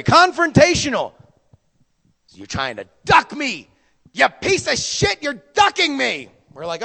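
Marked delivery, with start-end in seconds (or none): 2.3-6.3 higher, imitating an irate drunk; hammed-up accusation; mock drunk anger. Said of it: "he became irate, very angry".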